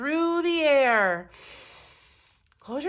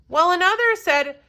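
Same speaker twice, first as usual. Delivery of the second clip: ordinary delivery, nothing marked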